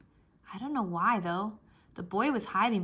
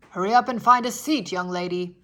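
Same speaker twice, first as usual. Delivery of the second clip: louder, firm grown-up order; stern bus driver; 10 dB louder than usual. A narrator's reading. Mister Wu tells Junie B to sit down, loud and firm. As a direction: hurry her along like a strict driver.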